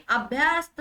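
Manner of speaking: अभ्यस्त with a long या in the middle; wrong long आ. Shown as a demonstration. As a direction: stretch अभ्यस्त into अभ्यास्त. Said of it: "नहीं". (अभ्यस्त में य को लंबा या)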